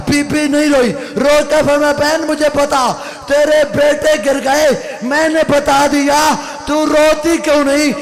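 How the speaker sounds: mourning recitation. Acted. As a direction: cry the story out to the mourners. Majlis lament, raised recitation.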